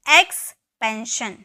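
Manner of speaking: एक्सपेंशन said slowly, every syllable distinct; teacher spells out एक्सपेंशन slowly for the class; slow, clear model word. Shown as a demonstration. Teacher to students, slow clear एक्सपेंशन. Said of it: "एक्स, ठीक है".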